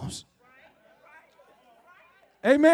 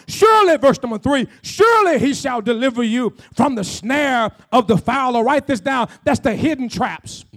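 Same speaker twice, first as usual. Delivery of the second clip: emphatic, raised-voice sermon delivery; forceful preaching; 4 dB louder than usual. Real, not acted. Preacher promising the congregation God's protection, forceful preaching. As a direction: drive the key words home loudly.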